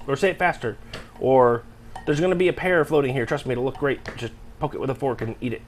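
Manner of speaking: soft director voice, halting, then fading away; George Lucas. Retold or imitated. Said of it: "pretty good impression of George Lucas".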